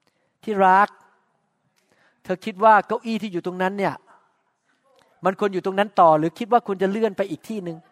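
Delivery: gently asking the spouse with a laugh; sweet asking. Retold or imitated. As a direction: coax with a question, lightly. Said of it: "ถาม".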